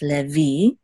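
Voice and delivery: "Levi" as leh-VEE; stress on last syllable. Shown as a demonstration. Teacher gives the accented name, "Levi" stressed at the end. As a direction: put the weight on the final vee of "Levi". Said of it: "accent is on the last syllable".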